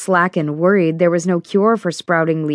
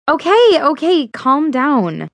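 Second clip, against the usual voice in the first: soothing friend; 9 semitones higher, 3 dB louder, slower than usual. Acted. Fiona soothing panicking friend.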